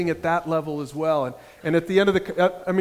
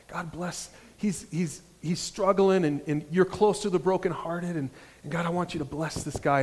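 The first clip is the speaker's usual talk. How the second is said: much softer, tender prayer; heartfelt prayer; 6 dB quieter than usual. Retold or imitated. Jimmy praying over the homeless man, soft and heartfelt. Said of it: "heartfelt prayer".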